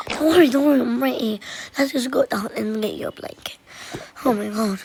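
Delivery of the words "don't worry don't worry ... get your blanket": a pretend-rescuer's loud reassurance. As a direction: shout comfort to a scared sister. Reassuring scared sister loudly.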